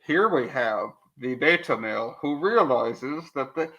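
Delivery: half-hearted nature documentary narrator; David Attenborough. Acted. Co-host attempts wildlife narration about Cenk, tentative narrator voice. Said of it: "I don't have a David Attenborough voice".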